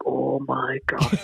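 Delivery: slow, drawn-out disbelief; retold dawning realisation. Comedian realises his mistake on stage, slow retold dismay. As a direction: let it sink in slowly.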